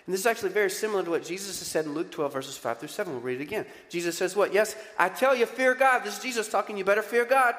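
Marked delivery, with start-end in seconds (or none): 4.5-6.0 louder, higher stern command; booming fear God; commanding warning. Acted. Preacher voices Jesus warning. 6.8-7.5 louder, higher stern command; booming fear God; commanding warning. Acted. Preacher voices Jesus warning.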